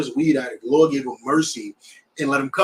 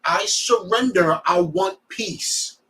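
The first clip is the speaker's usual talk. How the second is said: slow surrender; 3 semitones higher, much slower than usual. Retold or imitated. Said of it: "make him state".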